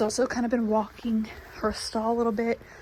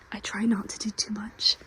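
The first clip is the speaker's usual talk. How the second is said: whisper; 5 dB quieter than usual. Real, not acted. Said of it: "trying not to talk too loudly".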